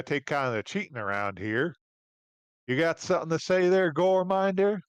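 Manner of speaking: a hint of a folksy barman; lightly voiced tavern keeper. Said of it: "barman, uh, steps in".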